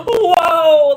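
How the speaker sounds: loud, high, crying-out whoa; shocked whoa. Real, not acted. Reader reacting to a creepy partner with a loud, high, shocked whoa.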